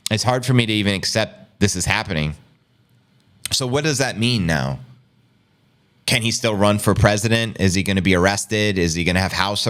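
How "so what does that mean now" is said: normal talking voice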